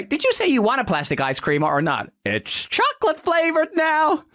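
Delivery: lightly voiced, rising pushy pitch; mock salesman. Fake seller pushing plastic ice cream, lightly upbeat. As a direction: dangle the product cheerfully.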